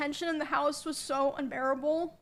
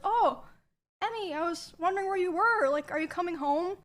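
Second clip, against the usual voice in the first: higher, falsely sweet and casual; sudden sweet tone; 4 semitones higher than usual. Retold or imitated. Emmy imitates the boyfriend turning falsely sweet before the roommate. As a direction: switch to fake niceness when a witness appears. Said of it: "deflated and changed his tone".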